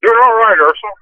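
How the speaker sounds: hollow, echoey phone line from the road; inside a well. Real, not acted. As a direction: sounds like talking down a well. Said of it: "You sound like you're in a well".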